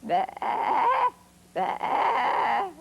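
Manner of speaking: goat bleat. Retold or imitated. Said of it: "a goat".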